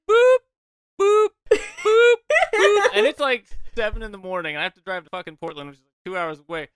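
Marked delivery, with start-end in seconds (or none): 0.1-2.9 high, loud laughing boop sounds; mock old man button boops. Old man jabbing machine buttons, laughing boops. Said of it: "I'm an old man, so I'm just like".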